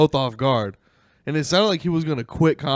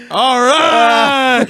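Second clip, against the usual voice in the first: awkward host; 11 semitones higher, 11 dB louder than usual. Retold or imitated. Quoting his awkward onstage filler.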